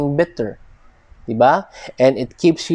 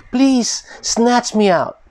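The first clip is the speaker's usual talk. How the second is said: high, pleading cry to be snatched out; urgent plea; 8 semitones higher, slower than usual. Retold or imitated. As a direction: beg for rescue, pitched up and slowed. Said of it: "There's a sense of urgency".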